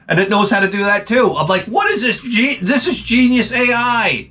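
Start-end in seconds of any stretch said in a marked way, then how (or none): 1.6-4.3 high, slow, laughing amazement; high mock awe with a laugh breaking in; laughing wonder. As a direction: marvel at it through a laugh. Marvelling at the robot.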